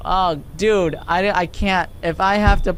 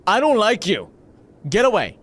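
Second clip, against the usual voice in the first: raised, emphatic rebuff; playful, higher-pitched holler; calling out; 5 semitones higher than usual. Pretend. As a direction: shoo off a creep outside the window. Calling at creepy man outside.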